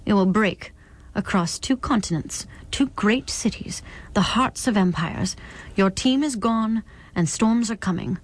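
lightly voiced herald of a coming storm; a hint of a solemn oracle; portentous visitor. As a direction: deliver the warning in measured, weighty phrases. Visitor delivers prophecy.

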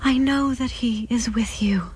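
murmured. Acted. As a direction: whisper it to soothe her. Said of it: "Clara murmured".

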